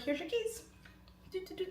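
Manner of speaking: high, light sing-song; feigned innocence. Retold or imitated. Seller handing keys to a man she fancies, high feigned innocence. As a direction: chirp it innocently, softening at the end.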